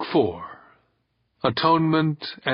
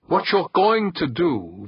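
higher, insistent order; steel in the voice; 8 semitones higher than usual. A narrator's reading. Skipper giving Nico his orders, steely. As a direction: lay down the order firmly. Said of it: "with steel in his voice".

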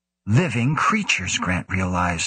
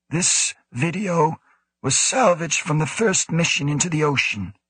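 rasping tired voice; 8 semitones higher than usual. A narrator's reading. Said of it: "his rasping voice labored, tired".

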